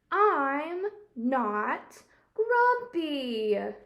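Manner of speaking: slow, loud angry shout; shouting angrily. Acted. Jim shouts at the animals while beating his chest, slow and furious. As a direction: bellow it, dragging each word. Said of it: "shouted Jim as he beat his chest".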